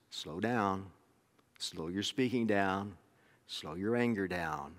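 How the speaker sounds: each phrase drawn out slowly; slowed down. Shown as a demonstration. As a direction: let every word hang, unhurried. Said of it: "preacher drawing out James's advice".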